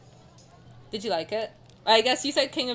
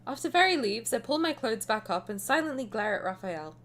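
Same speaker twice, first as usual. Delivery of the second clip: story narration; 3 dB quieter than usual. A narrator's reading. Reads game story aloud.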